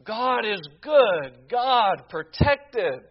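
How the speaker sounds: a hammed-up joyful outcry; mock praise cry. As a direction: call it out as the media should have. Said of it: "Where was the media crying out".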